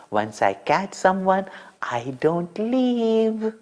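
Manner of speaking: put-on the divine baby's gentle firm promise; calm baby vow. Baby Krishna holding on.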